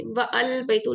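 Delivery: व अल बैतु with the alif sounded, wa al baitu; the wrong reading the teacher warns against; wrong separate form. Shown as a demonstration. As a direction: split व and अल बैतु apart. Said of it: "नहीं बोलूंगी".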